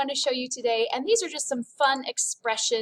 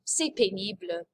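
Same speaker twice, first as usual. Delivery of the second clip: lower, sighing "C'est pénible" like it's a chore; bored and fed up; 4 semitones lower than usual. Shown as a demonstration. Teacher to class, modelling boredom: bored sigh. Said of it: "Ugh, it's boring".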